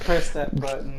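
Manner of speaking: loud, punchy hype call; extreme hyped kids ad. Acted. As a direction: pump up the viewers to press. Hyped outro call to action.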